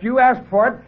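high, hard snap; snapped. Acted. Lieutenant snaps at the doctor before firing. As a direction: bite the words off. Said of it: "I snapped".

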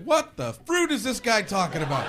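mock-bewildered outburst; baffled viewer. Confused audience member reacting to the comic, mock bafflement. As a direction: jump up in pitch, incredulous. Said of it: "other people are like".

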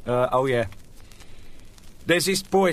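ordinary delivery

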